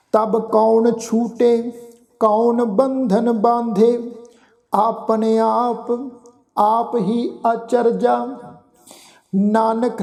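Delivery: slow, measured chanting of sacred verse; slow scripture recitation. Acted. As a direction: draw each word out reverently.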